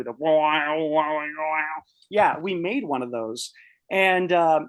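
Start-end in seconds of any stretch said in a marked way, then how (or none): 0.0-1.8 didgeridoo drone. Retold or imitated. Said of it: "the didgeridoo".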